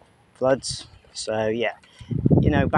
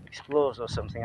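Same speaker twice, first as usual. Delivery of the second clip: whispering; 4 dB louder than usual. Real, not acted. Half-joking channel name idea.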